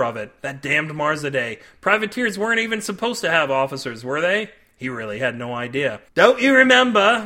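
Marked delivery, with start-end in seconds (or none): 6.1-7.2 loud, higher indignant shout; captain shouting at Cade. A narrator's reading. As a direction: throw the question at him. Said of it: "the captain shouted".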